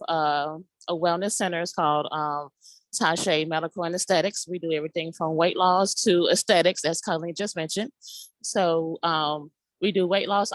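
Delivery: numb mouth; talking through a numb mouth after dental work; numb from the dentist. Real, not acted. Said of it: "my mouth is numb".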